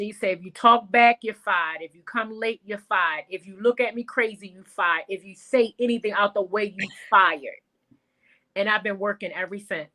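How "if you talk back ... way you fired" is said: stern lecture. Retold or imitated. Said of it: "he gave me this lecture".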